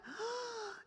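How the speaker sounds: high, soft, drawn-out "ah"; soft high wail of emotion; acted emotional cry. Shown as a demonstration. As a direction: demonstrate crying from being moved. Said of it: "también significa llorar".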